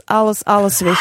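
words break into laughter; laughing. Real, not acted. Telling joke, bursts out laughing.

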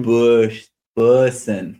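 "Bush" then "Bussin", same short oo in both; sounding out the name. Shown as a demonstration. Host learning the surname, "Bussin" built from the "Bush" vowel. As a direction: practise "Bussin" off the word "Bush". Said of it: "Like bush".

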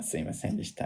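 low, soft, whispered sorry; bow out as the cowed clerk; hushed mock apology; meek apology. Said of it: "ってなって終わった".

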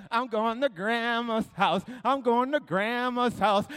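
put-on slow, drawn-out little-kid chant; gloating child. Child bragging in his brother's room, gleeful. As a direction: stretch it out to gloat.

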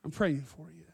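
low, soft reassurance, left to settle; tender Jesus. Acted. Jesus telling Peter he is praying, tenderly quiet. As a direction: quietly comfort a friend, pausing between phrases. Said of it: "was to tell Peter".

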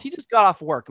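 imitated firm objection; protective dad. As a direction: cut in to ward people off. Retold dad warding off approaching fans.

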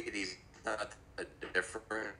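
garbled underwater connection. Real, not acted. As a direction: voice bubbling as if underwater. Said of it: "it sounds like you're underwater".

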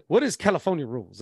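imitated Southern coach, puzzled question; lightly put-on deep Southern accent. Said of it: "deep Southern accent".

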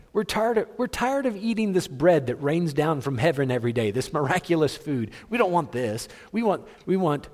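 high, mocking whine of ungrateful people; hammed-up grumbling; whiny complaining. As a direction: whine it like a spoiled crowd. Mocking people whining about manna.

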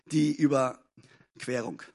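"Die Überquerung" spoken slowly, word by word, for notes; slow title for the notebook; slow, dictated. Shown as a demonstration. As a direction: say "Die Überquerung" slowly so they can write it down. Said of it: "einfach aufschreiben".

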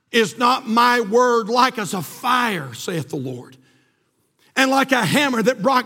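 strong pulpit proclamation of verses; preaching scripture. Acted. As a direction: declaim the verse with weight.

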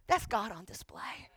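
slow, breath-heavy near whisper; hushed reverence. Real, not acted. Preacher answering own question for church, hushed. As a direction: let it land softly, slowly.

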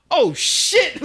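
high, loud imitated outburst; shocked yell. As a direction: holler it like a stunned onlooker. Dudes startled at the elevator.

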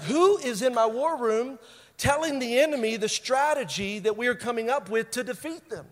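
hint of an exasperated ruler; frustrated, mad king. King confronting his war room over a leak, mad and frustrated, lightly acted. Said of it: "he's mad, he's frustrated".

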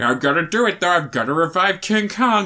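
slightly put-on Swedish-accented hero; mock Swedish accent. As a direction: lightly send up a Swedish actor's accent. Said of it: "Not your Swedish accent".

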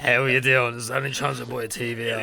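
put-on Dublin accent. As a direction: ask in a broad Dublin accent. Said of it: "if you did your Dublin voice again".

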